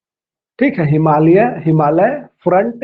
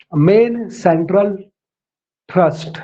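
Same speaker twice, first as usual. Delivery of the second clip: slow dictation; slower than usual. Shown as a demonstration. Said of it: "आप लिखिएगा ना".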